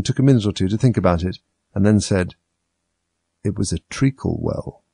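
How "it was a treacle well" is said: sleepy Dormouse. Acted. Sleepy Dormouse answers slowly.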